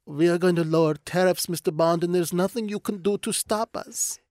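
lightly voiced suave movie villain; a hint of a gloating villain; Bond villain voice. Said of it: "It sounds like a Bond villain stroking a cat going".

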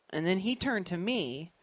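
normal talking voice

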